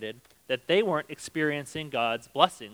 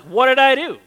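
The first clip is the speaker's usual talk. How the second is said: mock innocent; 10 semitones higher, 13 dB louder than usual. People play innocent to God.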